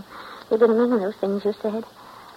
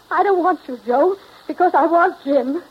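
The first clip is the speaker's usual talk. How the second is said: desperate confession; 7 semitones higher, 4 dB louder than usual. Acted. Bella confesses she wants Jim.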